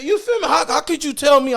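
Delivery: high and loud, laughing through it; laughing disbelief. Real, not acted. To the interviewer, laughing disbelief. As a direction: laugh out the outrage.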